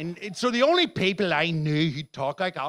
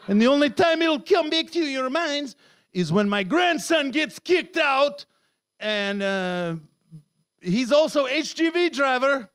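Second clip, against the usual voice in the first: put-on Polish accent; 3 semitones higher than usual. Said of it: "I am Polish escort fighter pilot".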